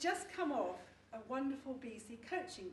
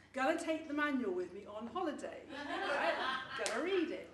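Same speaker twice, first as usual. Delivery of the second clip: a keen student voice, louder, with a laugh; imitating her keen self; 3 semitones higher, 5 dB louder than usual. Wife mimics her keen self to the audience, laughing. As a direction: play the eager learner packing the manual. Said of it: "I'm this sort of person".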